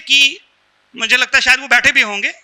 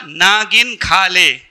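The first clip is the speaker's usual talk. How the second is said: slow, drawn-out words, lower pitch; slow deliberate quote; 5 semitones lower, much slower than usual. Acted. Husband telling wife to eat more, slow and deliberate. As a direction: stretch each word out slowly.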